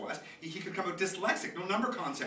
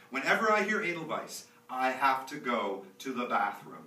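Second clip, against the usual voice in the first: laughing; 6 semitones higher, 11 dB louder than usual. Acted. Laughing through the line.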